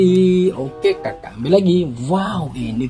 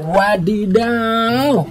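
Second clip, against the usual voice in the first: excited; 6 semitones higher, much slower than usual. Acted. Drawn-out exclamation at toy.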